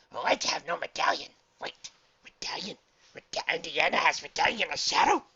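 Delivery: high, loud astonished dog voice; surprised. A narrator's reading. Dog learning the archaeologist has the medallion, surprised. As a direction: build to an amazed, delighted question. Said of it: "blinked his emerald eyes in surprise".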